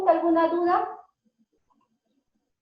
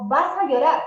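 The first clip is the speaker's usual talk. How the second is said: put-on louder, a threatening warning to a child; mock scolding parent; 6 dB louder than usual. Shown as a demonstration.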